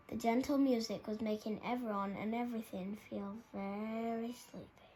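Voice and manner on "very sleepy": breathy sleepy whisper. A narrator's reading. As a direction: let the word fade to a whisper. Lulling story narration.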